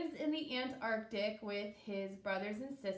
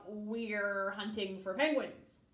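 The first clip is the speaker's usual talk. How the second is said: mild growl. Acted. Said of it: "They growled".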